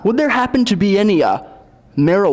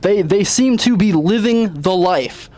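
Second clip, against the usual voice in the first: news reporter. Acted.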